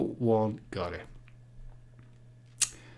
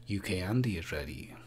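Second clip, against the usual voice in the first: whisper; 4 semitones lower, 8 dB quieter than usual. Real, not acted. Reading names out softly.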